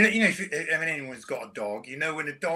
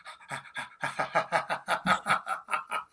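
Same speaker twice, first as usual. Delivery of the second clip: panting laugh; 3 semitones higher than usual. Shown as a demonstration. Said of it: "gradually evolved into a laughter noise".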